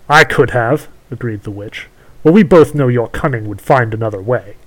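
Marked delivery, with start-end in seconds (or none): 0.1-0.9 witch voice. Acted. Witch speaks to prince. 2.2-4.6 witch voice. Acted. Witch speaks to prince.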